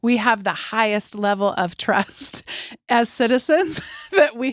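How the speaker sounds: mock-earnest praise, amusement breaking through; sarcastic. Shown as a demonstration. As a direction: say it with tongue in cheek, chuckling partway. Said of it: "I am being incredibly sarcastic".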